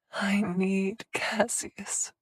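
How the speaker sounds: slow faint whisper; barely audible whisper. A narrator's reading. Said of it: "she whispered".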